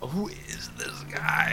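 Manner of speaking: slow, hushed whisper; whispered aside. Acted. Podcaster asking friends about the guest, slow whispered aside. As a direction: whisper it slowly to your friends.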